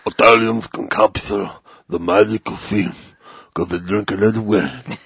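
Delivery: cartoonish old Italian, hammed up; bad Italian accent. Podcaster answering a listener's question, stereotypical Italian accent. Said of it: "my favorite Italian voice to do".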